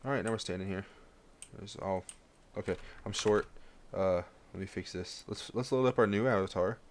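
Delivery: talking around a cough drop; sucking a hard candy. Real, not acted. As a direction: cough drop in mouth, words slightly thick. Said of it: "took a cough drop in my mouth".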